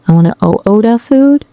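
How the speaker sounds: put-on hesitant try at a Chinese accent; attempted Chinese accent. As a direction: copy a Chinese accent tentatively, only lightly. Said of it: "Let me try".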